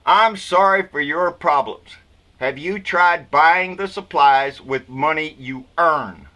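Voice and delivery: slow, mockingly sympathetic read; mock sympathetic. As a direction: feign sympathy while the words stay cold, slowly. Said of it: "in a very sympathetic voice".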